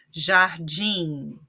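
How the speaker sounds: Jardim with weight on the closing dim; stress on final syllable. Shown as a demonstration. Teacher showing students an oxítona, Jardim stressed on dim. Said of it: "é a sílaba tônica".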